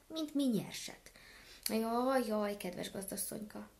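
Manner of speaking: a touch of wailing complaint, goose pleading; mild lament. Acted. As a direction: whine sadly to the mistress. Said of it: "igen siralmasan kezdett gágogni".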